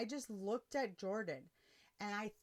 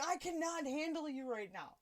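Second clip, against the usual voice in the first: exasperated; 7 semitones higher than usual. Retold or imitated. Exasperated driver quoted after scare.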